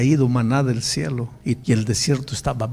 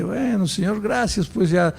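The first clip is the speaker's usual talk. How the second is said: higher, mildly deflated mock thanks; half-sad, resigned; 6 semitones higher than usual. Disappointed believer thanking God before going home, mock half-sad. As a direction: act out lukewarm, disappointed gratitude. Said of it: "medio triste".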